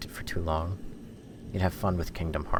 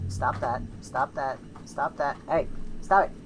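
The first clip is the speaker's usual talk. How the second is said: high stern stop it; scolding Loki to stop; scolding the pet; 8 semitones higher than usual. Real, not acted. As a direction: tell the pet off firmly.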